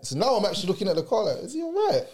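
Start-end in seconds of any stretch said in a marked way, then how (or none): 1.4-2.0 worried call. Retold or imitated. Louder repeat of concerned question.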